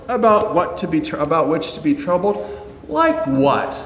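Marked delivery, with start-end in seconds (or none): 2.9-3.7 high, baffled little question; mock surprise. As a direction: pop it up in disbelief.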